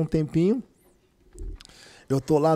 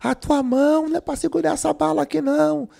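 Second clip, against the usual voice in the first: prophetic voice; 11 semitones higher than usual. Retold or imitated. Prophecy delivered by woman.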